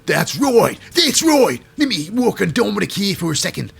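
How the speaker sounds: exaggerated put-on accent; Rhea Ripley. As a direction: mimic her accent, broadly overdone. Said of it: "And Rhea Ripley's like".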